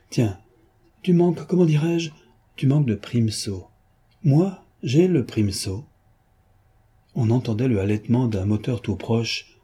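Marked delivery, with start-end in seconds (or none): 0.1-5.8 lightly voiced mocking gentleman thief; a hint of a playful rogue gloating; lightly voiced jaunty Lupin; teasing Lupin. Lupin boasting.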